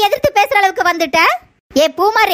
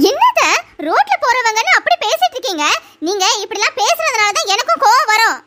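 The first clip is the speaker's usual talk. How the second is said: higher, meek daughter-in-law explaining; a lightly voiced young wife excusing herself; higher daughter-in-law defending herself to her mother-in-law; 3 semitones higher than usual. Daughter-in-law arguing back.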